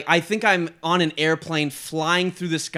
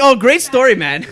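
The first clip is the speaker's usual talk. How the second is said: sarcastic; 7 semitones higher, 8 dB louder than usual. Retold or imitated. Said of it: "Just like".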